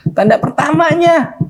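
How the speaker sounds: soaring, slowed cry of joy; ecstatic repetition. Acted. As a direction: stretch the words out in delight. Young man sees first sign.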